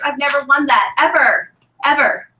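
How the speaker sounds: real emotion breaking through; teary. Real, not acted. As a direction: voice catching with emotion.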